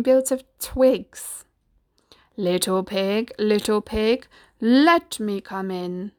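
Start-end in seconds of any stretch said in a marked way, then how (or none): 2.4-6.1 slow, drawn-out wolf calling at the door; lightly voiced wolf, stretching the words out; wolf figure, coaxing. Wolf asking little pig to let him in, drawn-out coaxing.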